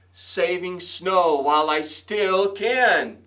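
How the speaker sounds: slow, mild grumble as Rabbit; grumbling. Acted. Rabbit grumbles slowly to Mouse about saving snow. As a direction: grumble it slowly, a touch sulky. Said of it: "Rabbit grumbled".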